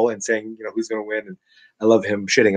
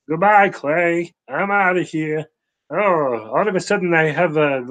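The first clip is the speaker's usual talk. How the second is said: frog in throat; 5 semitones higher than usual. Real, not acted. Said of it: "I got a frog in my throat".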